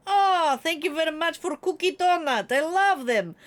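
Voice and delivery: excited. Real, not acted. Thanking viewer for gift.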